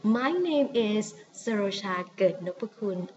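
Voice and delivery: "Sarosha Ket Nopakun" in a Thai accent; Thai name unaltered. Shown as a demonstration. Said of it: "please follow the Thai accent".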